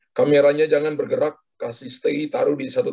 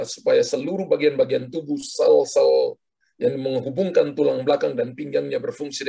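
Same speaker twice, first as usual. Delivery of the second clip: fervent prayer. Acted. Prays for caller's healing.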